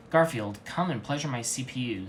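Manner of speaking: desire. Acted. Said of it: "with desire".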